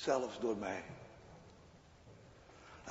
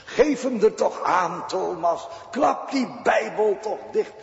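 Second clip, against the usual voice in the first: the devil whispering temptations, higher and louder, pressing; tempting devil; 7 semitones higher, 6 dB louder than usual. Acted. Preacher voicing the devil tempting Thomas, higher and louder. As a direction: urge him to give it up like a sly tempter. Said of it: "Die zegt".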